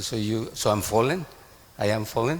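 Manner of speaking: mildly mock-indignant retort; acted incredulous question. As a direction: question the charge as if taken aback. Acting out Prabhupada's challenging question.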